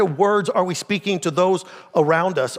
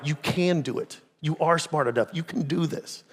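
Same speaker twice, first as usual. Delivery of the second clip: encouraging words; 3 semitones lower, 6 dB quieter than usual. Shown as a demonstration. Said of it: "speak words of life".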